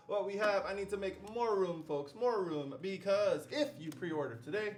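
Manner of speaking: lightly hammed-up infomercial pitch; shopping-channel host. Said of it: "I feel like I'm one of those, like".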